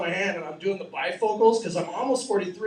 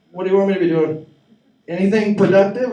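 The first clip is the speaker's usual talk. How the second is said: loud, fed-up dad yelling back; a dad yelling back from the garage, fed up; exasperated shout; 9 dB louder than usual. Acted. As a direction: bark it at the family. Dad snapping at family.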